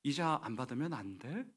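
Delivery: soft, understated plea; mildly pleading, acted tenderness; tearful compassion. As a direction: ask gently, as if near tears. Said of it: "눈물이 좀 글썽글썽 거리면서".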